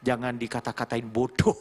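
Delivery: ordinary talk, nothing marked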